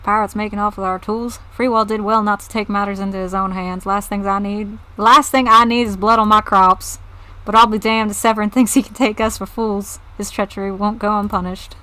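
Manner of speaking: riled southern farmer; southern accent, building to an indignant outburst mid-speech. Acted. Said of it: "it's kind of a fun accent".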